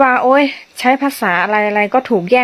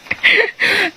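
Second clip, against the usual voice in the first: a high, bursting self-conscious laugh; high embarrassed laugh; 11 semitones higher than usual. Real, not acted. A teacher laughs at her own shaky Karen. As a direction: laugh off your clumsy Karen.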